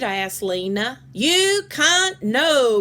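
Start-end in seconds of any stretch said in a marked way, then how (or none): 1.1-2.8 high, slow, loud squawking parrot; a shrill-free squawk of a posh bird; loud British parrot. Retold or imitated. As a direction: stretch it out like a proud parrot in a British accent. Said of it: "we all said at the same time".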